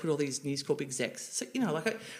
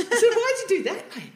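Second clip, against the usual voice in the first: high, slow, laughing through it; laughing question; 8 dB louder than usual. Retold or imitated. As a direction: ask it cheekily while giggling. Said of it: "I said".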